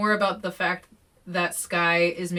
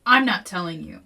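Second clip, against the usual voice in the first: hurled at her; 6 dB louder than usual. Acted. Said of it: "she hurled at me".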